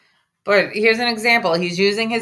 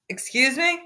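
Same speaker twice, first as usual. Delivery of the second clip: sharp rising indignant question; quiet, affronted rise; indignant excuse me; 6 semitones higher, 5 dB quieter than usual. Real, not acted. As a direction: act offended at the insult. Streamer reacts to the clip in disbelief.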